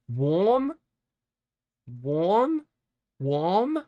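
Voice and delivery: high rising pet-talk questions; cutesy high questions. Real, not acted. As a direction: coax the pet in a sing-song high voice. Asking pet repeatedly.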